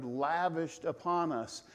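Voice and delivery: slow, with "upon" leaned on; emphasized phrase. Shown as a demonstration. Preacher showing how Kent stressed the reading. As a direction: draw out "lavished upon us" deliberately. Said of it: "he actually emphasized the word".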